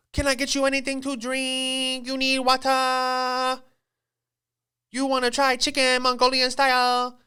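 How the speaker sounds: exaggerated fake Asian accent; mock Asian accent. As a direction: imitate a server's put-on Asian accent, sing-song and high. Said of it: "she's just doing this Asian accent".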